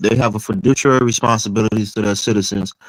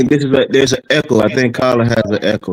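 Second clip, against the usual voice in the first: echoing mic. Real, not acted. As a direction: voice echoing on a bad mic line. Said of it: "you're repeating", addressed to the speaker.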